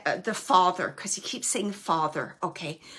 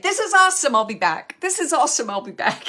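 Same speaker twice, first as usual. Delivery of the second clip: excited; 4 semitones higher, 8 dB louder, faster than usual. Retold or imitated. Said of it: "He's like".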